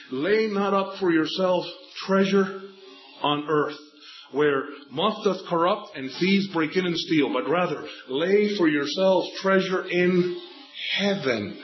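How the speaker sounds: slow, lifted reading of the verse; scripture reading. Acted. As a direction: read the verse slowly, with weight. Preacher quoting scripture.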